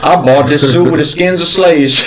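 lightly voiced old Southern gentleman, gruff; a hint of a cranky Southern colonel scolding; mild drawling Southern old-timer. Southern gentleman character continues.

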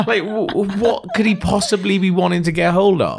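high, loud giggling through the words; cracking up at a strange listener email; laughing. Real, not acted. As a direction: laugh while you speak.

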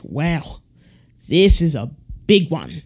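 lightly Australian nature-host wonder, a hint of Steve Irwin; Steve Irwin impression. Shown as a demonstration. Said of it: "I said that like Steve Irwin".

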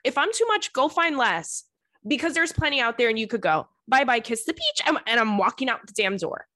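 high, sharp mock brush-off; imitating a sassy telling-off. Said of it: "that's what I would say to him".

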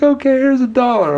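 high mocking woman voice; squeaky put-on female voice. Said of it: "Your woman voice is disgusting".

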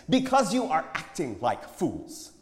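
high, loud, slow and pointed; pointed retort. A narrator's reading. Prophet answers his friend, pointedly. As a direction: drive each word home slowly. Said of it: "the prophet said pointedly".

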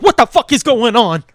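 loud, disbelieving; baffled outburst. Retold or imitated. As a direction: react in loud confusion. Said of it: "And it's like".

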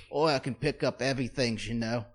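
lightly put-on English accent, quick; a hint of a comic English applicant; mock British accent. Job applicant answering the agency, lightly mocked British accent.

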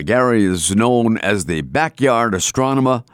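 slipped-in Boston accent on astronomer. Real, not acted. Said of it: "There's my Boston accent coming out".

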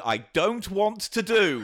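slow, drawn-out moan of an intro; presenter's intro sliding into a slow whinge; comic reluctance. Acted. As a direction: drag the words out in mock protest. Show intro turned into reluctant complaint.

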